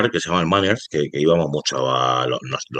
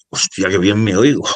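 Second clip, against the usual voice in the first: retold amazement, a bit higher and louder; amazed first reaction; 4 semitones higher, 5 dB louder than usual. Rapper retelling his first studio session, mildly amazed outburst. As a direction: marvel at how good you sound. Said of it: "fue lo primero de".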